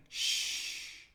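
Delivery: an unvoiced, soft shush. Shown as a demonstration. Showing the letter's sound, a soft shush. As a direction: hush someone, finger to lips. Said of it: "putting their finger to their mouth and saying".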